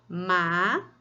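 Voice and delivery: "Macaco" as ma, ca, co with long pauses; each syllable of "Macaco" held apart. Shown as a demonstration. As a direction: count out "Macaco" in three separate beats. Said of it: "conte uma sílaba".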